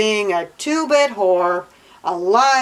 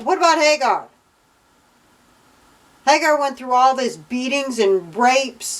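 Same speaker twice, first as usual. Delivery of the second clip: higher-pitched, exasperated objection; indignant protest; 4 semitones higher than usual. Real, not acted. Reader objecting on behalf of Hagar, indignant.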